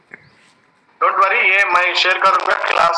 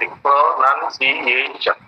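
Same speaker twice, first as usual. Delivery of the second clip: pronunciation slow and lower, syllable by syllable; five separate parts; 4 semitones lower, much slower than usual. Shown as a demonstration. Teacher showing five parts you are getting, slowly split up. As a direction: count out pronunciation in five low, slow beats. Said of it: "five parts you are getting".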